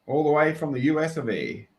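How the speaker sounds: playful American Southern twang; hammed-up Southern US greeting; put-on Southern accent. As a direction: greet them in a mock Texan accent. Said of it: "That sounds more like a Southern accent".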